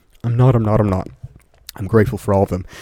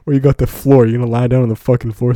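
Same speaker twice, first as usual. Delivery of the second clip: laughing complaint; 3 semitones higher, 4 dB louder than usual. Real, not acted. Laughing at his own misery.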